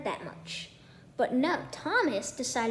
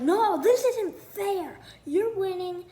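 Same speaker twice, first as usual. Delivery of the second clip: whiny protest; 6 semitones higher than usual. Retold or imitated. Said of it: "Thomas was like".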